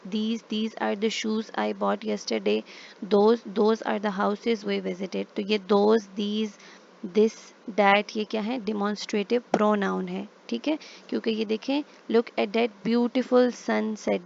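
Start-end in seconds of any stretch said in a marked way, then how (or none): 0.1-2.6 slow example reading. Shown as a demonstration. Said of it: "reading the example sentence aloud". 3.0-5.3 slow example reading. Shown as a demonstration. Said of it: "reading the example sentence aloud". 12.1-14.2 slow example reading. Shown as a demonstration. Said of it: "reading the example sentence aloud".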